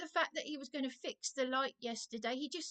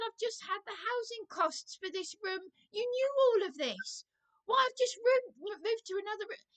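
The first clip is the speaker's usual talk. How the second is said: raised, heated reenactment of shouting at the manager; indignant mock shout, higher pitched; retold yelling; 5 semitones higher, 3 dB louder than usual. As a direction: replay the angry yell, higher and louder. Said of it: "I started yelling down the phone".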